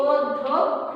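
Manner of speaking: "অধ্যক্ষ" split as od-dho-kkho; model pronunciation. Shown as a demonstration. Teacher answers how it is pronounced, in separate syllables. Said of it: "তাহলে এটার উচ্চারণটা কি?".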